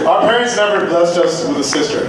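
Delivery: chuckling while talking; laughing through it. Acted. Joking toast with laughter.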